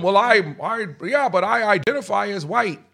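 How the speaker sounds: put-on timid boy excuse. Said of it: "What if I said to him".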